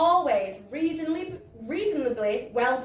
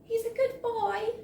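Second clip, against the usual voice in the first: mild sigh; 9 semitones higher, 3 dB quieter than usual. A narrator's reading. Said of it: "she sighed".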